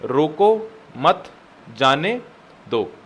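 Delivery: very slow, long gaps between words; spaced-out dictation. Shown as a demonstration. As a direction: dictate one word at a time. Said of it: "second line में फिर से लिखो".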